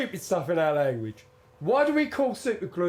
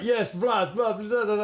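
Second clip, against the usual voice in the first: imitated Russian accent, slightly raised; mock a Russian man in the street; 3 semitones higher than usual. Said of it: "he does this impression of this geezer".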